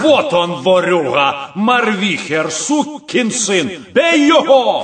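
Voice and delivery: нарастающий злобный крик, к концу громко; натравить толпу на вора; крик толпы. Acted. Толпа бьёт пойманного вора. (злой крик)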